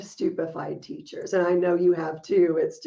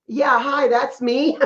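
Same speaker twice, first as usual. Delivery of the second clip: wry reply; 5 semitones higher, 5 dB louder, slower than usual. Retold or imitated. Answering the neighbor's advice.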